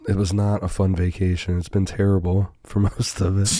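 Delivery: hoarse from strep throat; rough, sore-throat voice; throaty sick voice. Real, not acted. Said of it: "You got that throaty voice tonight".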